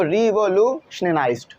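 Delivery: "रिवोल्यूशनलाइज्ड" slowly in chunks; bit by bit. Shown as a demonstration. Teacher telling students to read little by little, chunked "रिवोल्यूशनलाइज्ड". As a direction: sound out "रिवोल्यूशनलाइज्ड" piece by piece. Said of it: "थोड़ा थोड़ा जो पढ़ लो".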